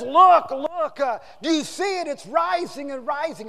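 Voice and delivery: high, loud, urgent cry; acted alarm. Editor warns his puzzled workers, loud and urgent. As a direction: call out as if raising the alarm.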